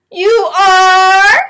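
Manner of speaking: high, loud astonished question; surprised child. Acted. Victoria reacts to her teacher's name, high and astonished. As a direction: gasp it out, amazed.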